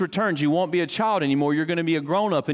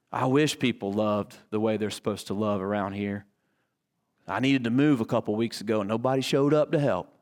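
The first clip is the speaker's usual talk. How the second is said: mock complaining; 5 semitones lower than usual. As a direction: whine a little about others. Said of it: "thinking about how everyone else falls short".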